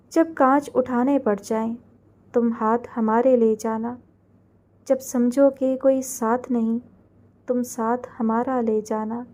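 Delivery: slow, soft, lingering verse; poem recital. A narrator's reading. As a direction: let each line of the poem sink in slowly.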